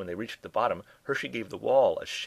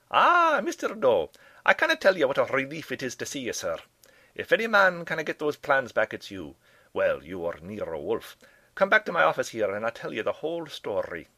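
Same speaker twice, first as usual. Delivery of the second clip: high, loud, hearty kilted professor; effusive Professor MacGuffin; 6 semitones higher, 7 dB louder than usual. A narrator's reading. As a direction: greet him with huge relief as an excitable project leader.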